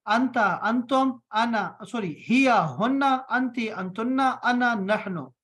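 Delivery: slow chanted recitation; slow drilled chant of अंता, अंतुम; recited pairs. Shown as a demonstration. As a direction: chant the pronoun pairs slowly. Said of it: "जोड़ा करके याद रखो".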